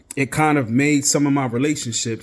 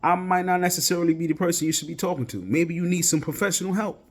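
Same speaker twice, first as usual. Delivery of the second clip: higher, fast overwhelmed friend; a hint of a flustered friend; 4 semitones higher than usual. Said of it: "they're like".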